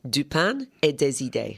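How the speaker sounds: "Du Pain et des Idées" repeated in French; French pronunciation. Shown as a demonstration. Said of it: "say it again".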